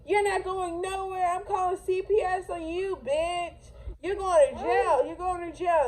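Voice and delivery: high mock yell of the angry woman. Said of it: "And she's all".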